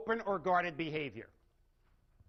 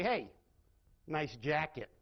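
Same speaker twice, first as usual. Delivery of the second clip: sarcastic compliment; 4 semitones lower, slower than usual. Shown as a demonstration. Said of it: "Very different meaning".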